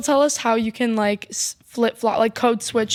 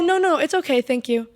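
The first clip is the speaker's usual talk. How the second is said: put-on British accent. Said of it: "really loud British".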